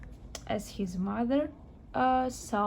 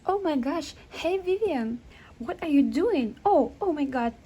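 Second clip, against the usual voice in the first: surprised; 3 semitones higher than usual. Acted. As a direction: burst in with delighted surprise. Friend bursts in on date.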